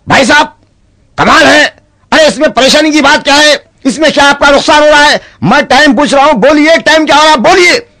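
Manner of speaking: very high, pushy nagging that climbs; exasperated pleading. Acted. Man badgering the mute for the time, very high and exasperated. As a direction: plead and nag at the top of the voice.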